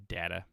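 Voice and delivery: "data" said TEH-ta, European style; continental data. Shown as a demonstration. Mocking how French Canadians and Europeans say it, teh-ta. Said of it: "French Canadians and Europeans".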